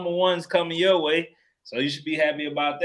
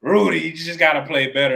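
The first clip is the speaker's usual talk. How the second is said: urging call; 6 dB louder than usual. Retold or imitated. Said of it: "Karl Anthony Towns was like".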